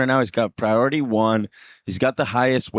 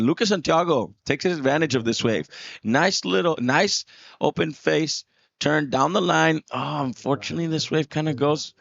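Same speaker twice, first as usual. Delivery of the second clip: higher, rising excitement on the call; excited play-by-play; 5 semitones higher than usual. Real, not acted. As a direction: call the ride as it unfolds. Live call of a wave.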